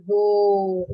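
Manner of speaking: a mild growled roar; playful lion roar. Shown as a demonstration. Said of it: "what's the sound of a lion".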